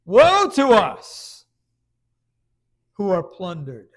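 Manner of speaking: loud, slow wailing lament; Jeremiah's cry. Retold or imitated. Jeremiah seeing judgment coming on his people, loud slow cry. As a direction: let the grief break out, stretched long. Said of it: "This is Jeremiah's own cry".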